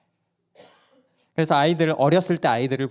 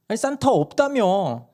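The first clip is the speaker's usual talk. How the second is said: put-on child arguing; 9 semitones higher, 3 dB louder than usual. Child argues with mom.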